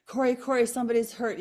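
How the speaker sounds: high, loud call for help, retold; children's urgent call. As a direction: act out kids running up with urgent news. Children calling her son for help.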